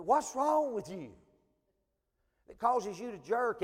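slow probing question. Retold or imitated. Stranger quizzing the preacher about his tic, slow and deliberate. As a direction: spell it out as if he can't believe it.

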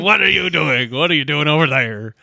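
mock Jamaican Hermes voice; Jamaican accent. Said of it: "was that your Jamaican accent".

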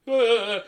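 loud, high goofy "uh"; stupid-smile noise. Retold or imitated. Imitating the rapper's reaction after his answer, stupid-smile noise. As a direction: imitate a dopey smiling grunt. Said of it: "he does this stupid smile".

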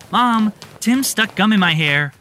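put-on high, loud child scream. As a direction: shriek it like an upset kid. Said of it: "screamed Elise".

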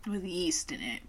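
hushed soft whisper. Real, not acted. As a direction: whisper it as a secret. Whispering while tasting.

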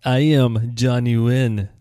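slow, drawn-out mock Russian accent. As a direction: announce yourself in a Russian accent. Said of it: "With my Russian accent".

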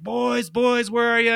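high calling yell; searching shout for the boys; retold yelling. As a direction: call out for the boys across the building. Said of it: "we hear him yelling from the kitchen".

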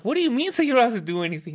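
high, fast disbelieving retort; incredulous. Retold or imitated. Retelling his reply to a lazy friend, high and fast in disbelief. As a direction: fire it back in disbelief.

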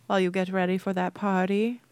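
lightly put-on Halloween host voice; a hint of playful spookiness. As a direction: slip into a mild Halloween voice. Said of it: "I don't know why I'm talking like this".

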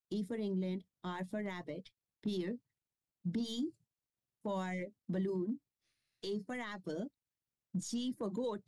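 careful dictation, a word for each letter; slow spelling out. Shown as a demonstration. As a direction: spell it letter by letter with pauses between. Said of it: "Can you very slowly, pronounce or say or spell".

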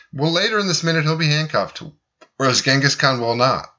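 talking through hiccups; hiccuping between words. Real, not acted. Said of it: "You all right over there?".

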